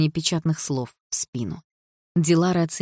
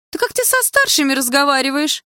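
much higher, louder indignant woman; outraged scolding; 9 semitones higher, 6 dB louder than usual. A narrator's reading. The woman scolds Дилара for rudeness, high and loud. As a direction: shriek at the rude girl. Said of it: "возмутилась женщина".

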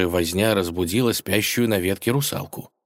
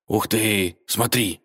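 amazed gasp; 2 semitones higher, slower than usual. A narrator's reading. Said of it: "ахнул Серый".

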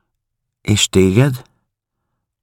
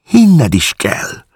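lágyan; 11 semitones higher, 3 dB louder, much slower than usual. A narrator's reading. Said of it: "mondta lágyan".

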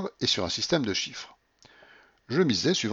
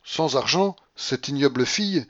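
high, raised-voice contempt; indignant tirade; 5 semitones higher, 5 dB louder than usual. A narrator's reading. Babouchka to Paulina about the general, indignant. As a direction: pour scorn on the whole scheme.

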